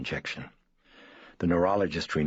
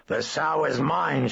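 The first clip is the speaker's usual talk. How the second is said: slow, much higher, louder demonic bellow; coarse powerful bellow; 10 semitones higher, 5 dB louder, slower than usual. Acted. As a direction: roar it like a possessing demon. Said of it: "she bellowed in a coarse and powerful voice".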